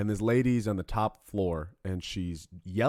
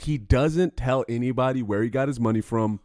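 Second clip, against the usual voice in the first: ordinary talk, nothing marked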